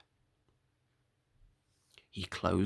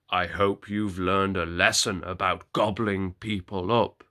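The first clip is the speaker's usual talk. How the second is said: 1 stern woodcutter; 3 semitones lower, 4 dB louder than usual. Acted. Woodcutter scolds wolf.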